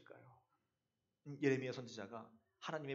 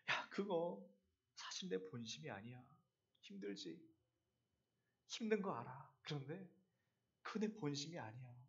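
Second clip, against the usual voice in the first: God speaking gently; 8 dB quieter than usual. Retold or imitated. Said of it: "하나님이 말씀하세요".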